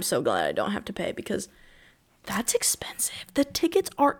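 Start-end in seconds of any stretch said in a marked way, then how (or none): 2.2-3.3 whispering. Real, not acted. Aside about price.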